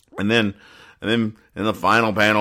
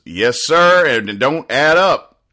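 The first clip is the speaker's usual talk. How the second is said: mock crying; 8 semitones higher, 4 dB louder, slower than usual. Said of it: "And she's crying".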